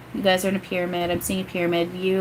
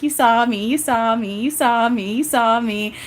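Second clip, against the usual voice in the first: gleeful repeated chant, slightly raised; really excited; 3 semitones higher, slower than usual. Retold or imitated. Medium voicing excited Eric to listeners, really excited. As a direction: repeat it like an eager kid, imitated. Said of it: "he's, like, really excited".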